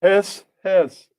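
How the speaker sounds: loud, hissed out as the Snake. Acted. The Snake greets C O, loud playful hiss. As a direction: hiss it big like a cartoon snake. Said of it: "and the Snake".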